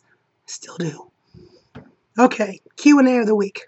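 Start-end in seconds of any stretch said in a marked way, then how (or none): 0.0-1.1 slow, voiceless whisper; strained voice. Real, not acted. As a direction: rasp it out with no voice. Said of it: "I wouldn't have coffee attacks".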